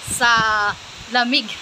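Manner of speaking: shaky voice from the cold; trembling with cold while talking; shivering. Real, not acted. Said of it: "ako ay nanginginig na sa lamig".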